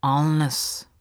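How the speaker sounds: subdued, mournful single word; understated sorrow; sad. A narrator's reading. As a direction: let it drop regretfully. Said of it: "sagt der Justus traurig".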